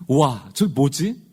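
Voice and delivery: slow, drawn-out wow, then a wondering question; awed wonder. Acted. Israelites seeing manna in the wilderness, awed wonder. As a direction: marvel slowly, as if never seen before. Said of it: "이건 감탄입니다".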